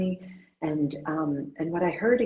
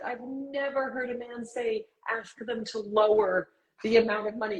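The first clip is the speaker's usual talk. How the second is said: imitated British accent, pitched up; 8 semitones higher than usual. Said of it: "in her wonderful British accent".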